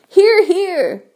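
high cheer of agreement; group shout. A narrator's reading. Creatures all agree with ladybird, shouted agreement. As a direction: cry it out high, like a crowd agreeing. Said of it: "they all shouted".

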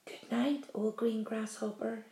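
soft, hushed good night; whispered good night. A narrator's reading. James saying soft good nights to his friends. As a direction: breathe it so no one wakes. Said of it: "he whispered".

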